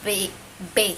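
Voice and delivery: B made with the lips shut; lip-closed B. Shown as a demonstration. Teacher showing learners the Maya B, lips closed. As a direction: say B by closing the lips firmly. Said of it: "hacemos un sonido con los labios".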